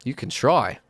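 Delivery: smug, challenging taunt; taunting ghost voice. Acted. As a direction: dare them to try.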